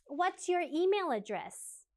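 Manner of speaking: drawn out slowly for learners; teacher models it slowly and clearly; slow clear model question. Shown as a demonstration. Teacher models the question slowly for students to repeat. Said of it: "I think you should practice this one".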